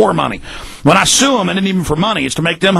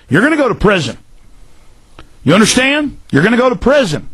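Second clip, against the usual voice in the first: angry warning; 6 semitones higher than usual. Real, not acted. Threatening debunkers on air.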